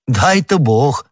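drawn-out, ardent hope; carried-away exclamation. A narrator's reading. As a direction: cry it out with enthusiasm. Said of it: "с увлечением вскричал Арамис".

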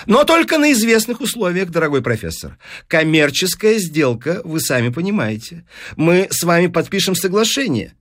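lightly voiced eager deal-maker, lifted at first; persuasive newspaper businessman. Newspaperman offering the professor money, persuasive. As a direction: pitch it like a smooth salesman.

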